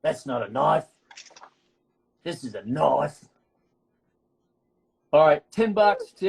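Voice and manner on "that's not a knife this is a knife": put-on quoting the movie in a sketchy Australian accent; bad Australian accent. Quizzing friends on a movie line, bad Australian accent. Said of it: "I'm even doing an accent really badly".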